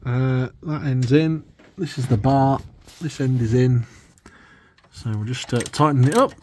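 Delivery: straining while lying under a car; talking on your back under a car. Real, not acted. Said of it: "I'm under the car doing some actual spannering".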